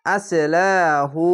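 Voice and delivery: আসলাহু stretched slowly, vowels held long; drawn-out recitation. Shown as a demonstration. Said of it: "এক আলিফ টেনে পড়বেন".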